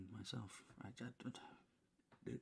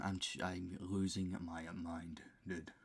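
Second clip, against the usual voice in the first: slow whisper; 4 dB louder, slower than usual. Real, not acted. Losing his mind at 4:57 am.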